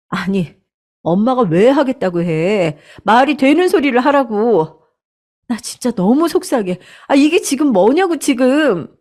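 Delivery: indignant shouting. Acted. Daughter shouting at her mother in indignation. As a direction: vent hurt and fury at mom. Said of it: "울분에 차서 소리를 치니".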